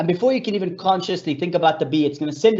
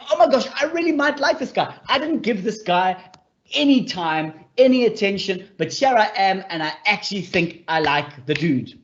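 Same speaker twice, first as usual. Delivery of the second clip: giddy crush; 4 semitones higher than usual. Retold or imitated. She voices the smitten doctor.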